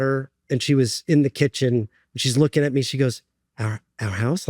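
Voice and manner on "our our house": softer, lower "Our, our house?" with a rise on "house"; retold low, halting question ending upward on "house"; hesitant question. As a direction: repeat "Our", then lift "house" into a quiet question. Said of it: "she's asking me".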